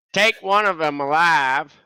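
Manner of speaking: yelling in character voice. Playing a character in the campaign, calling down to others, yelling in character voice. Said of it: "Harder to yell in that voice".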